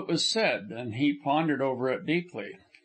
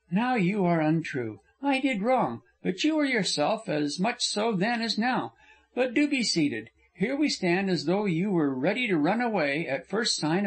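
a higher, earnest young woman's voice, only lightly put on; lightly voiced young woman; 4 semitones higher than usual. Frona insisting to Corliss she behaved badly, lightly raised young woman's voice. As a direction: lift the voice a little for the heroine, remorseful and insistent.

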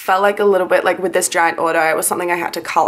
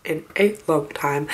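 sleepy morning voice; 2 semitones lower than usual. Real, not acted. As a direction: talk like you just woke up. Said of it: "Don't know why I'm talking like this".

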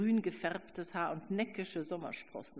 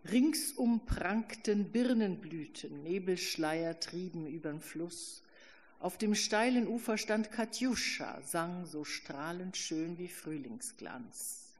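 slow, dreamy recitation of verse; recited lyrics; slower than usual. A narrator's reading. Narrator recalls song lyrics, slow and wistful. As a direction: savour each line as remembered.

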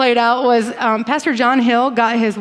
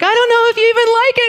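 laughing; 11 semitones higher, 4 dB louder, much faster than usual. Retold or imitated. Husband's unsure question retold.

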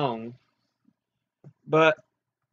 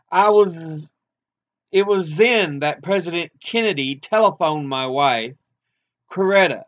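measured, emphatic reading of a civil rights interview; formal read-aloud. Acted. Reading Doctor King's interview to listeners, formal and deliberate. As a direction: read it out like a prepared speech.

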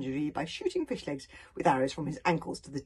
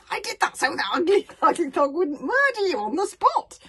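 worried pleading; 12 semitones higher, 11 dB louder than usual. A narrator's reading.

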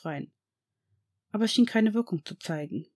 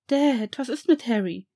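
put-on boy calling out higher and louder; called out; 4 semitones higher, 3 dB louder than usual. Draco calls to his father about Harry, loud call. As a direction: call out to your father in alarm. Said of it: "rief Draco".

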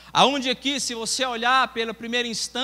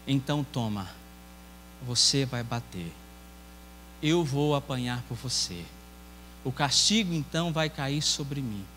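tender; 9 semitones lower, 5 dB quieter than usual. Acted. Mother offers to take punishment.

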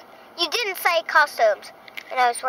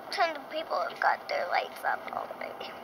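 whispering; 10 dB quieter than usual. Real, not acted. Whispered aside in van.

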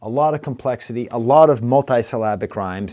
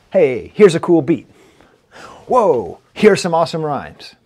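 louder, hyped-up mock enthusiasm; mock excited listener; 3 semitones higher, 6 dB louder than usual. Reviewer mocking the album's sameness, hyped-up voice. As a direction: parody a fan gushing over each track. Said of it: "it's like this".

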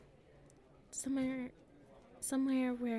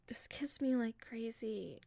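whisper; slower than usual. Acted.

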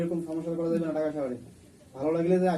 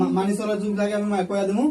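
stern demand; 4 semitones higher, 6 dB louder than usual. Real, not acted. Exorcist interrogating possessed woman.

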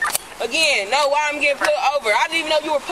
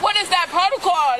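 shouting. Real, not acted. Detainee demands explanation.

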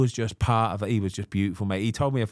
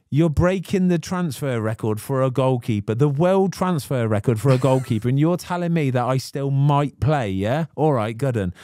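louder, higher mock-outraged retort to the chairman; indignant retort; 4 semitones higher, 4 dB louder than usual. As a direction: throw it back at him, half laughing in disbelief. Retold, indignant at chairman.

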